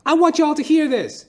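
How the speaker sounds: very high, loud, slow rant to a crowd; high-pitched hammed-up impression of a famous rapper ranting to the audience. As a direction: preach it like a drugged-up rapper on stage, stretched out and shouting. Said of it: "he stands up and he goes".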